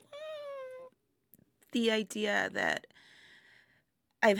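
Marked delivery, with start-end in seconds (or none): 0.0-0.9 tiny high-pitched "mm"; soft, held, very high nervous hum; uneasy high squeak. Acted. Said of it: "I'm just like".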